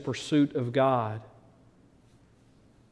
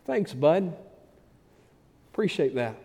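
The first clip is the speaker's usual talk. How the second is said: mock deflated thanks; 3 semitones higher than usual. Struggling man answering a friend's glib advice, deflated mock thanks.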